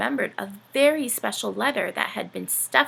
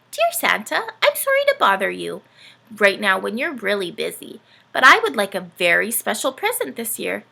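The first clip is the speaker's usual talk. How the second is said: put-on louder, sweet child reading her letter; child's letter voice; 3 semitones higher, 4 dB louder than usual. Dorothy writing to Santa, hopeful child voice. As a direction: read it as a hopeful little penguin.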